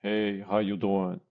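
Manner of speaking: formal, evenly pitched hello; formal greeting. Shown as a demonstration. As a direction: greet them in a measured, formal way. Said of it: "don't say it in a formal way".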